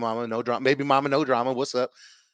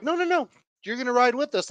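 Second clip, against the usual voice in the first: mock staff voice; 9 semitones higher than usual. Staff correcting him, voiced high.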